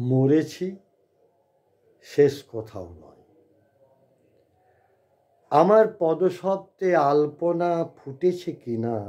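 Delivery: measured recital with long pauses between phrases; poetry recitation. Acted. Reader recites Bhabesh Basu's poem "ভাষা" to listeners, poetry recitation. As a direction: recite the poem line by line, letting key phrases lift.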